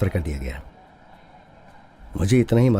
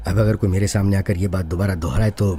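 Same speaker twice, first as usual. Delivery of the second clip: angry threat; 4 dB louder than usual. Acted. Bitter threat to anyone repeating it.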